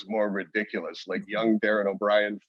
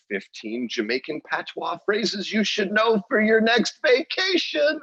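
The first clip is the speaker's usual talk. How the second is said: high, loud hammed-up headline read, climbing higher; mock headline voice; 14 semitones higher, 5 dB louder, slower than usual. Comedian mocks the article they researched with, hammed-up squeal. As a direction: send up a silly clickbait title. Mockingly quotes a clickbait article title.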